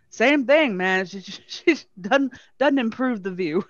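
lightly imitated Southern Belle; Southern Belle accent. Wife insulting the other woman, lightly imitated Southern Belle accent. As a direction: deliver the catty punchline as a Southern Belle. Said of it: "that pure Southern Belle accent".

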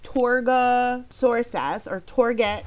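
Torga Sorseth or Torget, sounded out slowly syllable by syllable; sounding out words. Shown as a demonstration. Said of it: "So I sounded it out".

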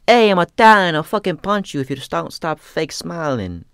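high, loud, blustering threat that settles down; threatening Italian photographer. Retold or imitated. Photographer threatening the speaker over his fake smile, loud bluster. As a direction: bluster like a hot-headed photographer. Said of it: "he was like".

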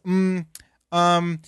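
hesitant mock filler sounds, drawn apart; Jeff Goldblum. Mocking a public speaker for co-host, halting impression. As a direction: imitate an actor groping for words. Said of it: "Anybody who goes".

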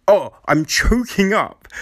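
hammed-up tearful catch; fake choking up. Mocking an actor's speech, fake choked up. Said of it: "So it's just like".

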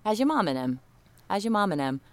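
New Orleans Yat local; casual New Orleans greeting; New Orleans accent. Shown as a demonstration. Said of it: "things to say when you're from New Orleans".

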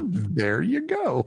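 slowed-down repeat; slow drawn-out. Acted. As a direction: drag it out slowly.

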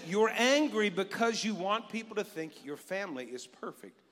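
cued God line said out; booming God voice. Retold or imitated. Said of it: "We practiced that earlier".

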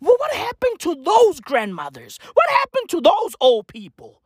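high, wailing question; exasperated lament. Acted. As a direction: cry out in comic despair. Comic lament for grandmothers.

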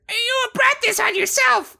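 very high-pitched, slow cartoon creature voice; cartoon falsetto, drawn out; Yoshi. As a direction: squeak it out slowly, way up high. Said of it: "I'm gonna do a Yoshi voice for this".

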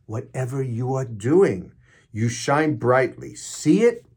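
stretched key phrases, emphatic uplift; inspirational reading. Acted. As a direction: urge them on with deliberate emphasis.

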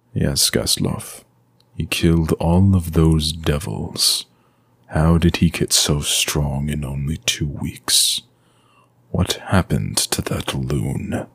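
slow, hushed, half-whispered musing; a vampire lord puzzling darkly to himself; Strahd brooding. Acted. Vampire lord's brooding thoughts.

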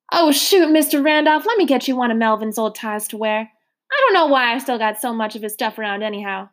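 lightly voiced motherly woman, rising coaxingly; a hint of a hearty foster mother; coaxing landlady. Trotter coaxing Mister Randolph to have pie, lightly coaxing.

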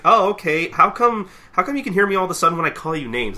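high, loud, exasperated retort; mock-outraged complaint; indignant. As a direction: call out the old man's selective hearing. Acted indignant retort to old man.

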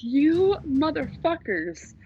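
mock-outraged telling-off of misbehaving dogs; retold exploding fury. Owner stepped in dog pee, retold fury. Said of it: "the fury just exploded out of me".

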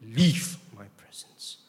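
slow, measured order to leave; restrained, deliberate banishing command; firm command. Acted. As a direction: dismiss him firmly, stretching the first word.

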